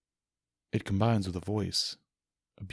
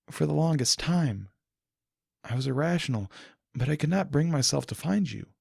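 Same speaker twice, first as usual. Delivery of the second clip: a touch higher, calm and forgiving; lightly voiced princess; 4 semitones higher than usual. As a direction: speak as a gentle, wise princess. Celestia's voice in the story.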